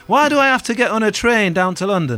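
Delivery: laddish Manchester accent, playing a Manchester musician; gruff Manc accent, deadpan. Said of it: "living out my favourite Manc accent".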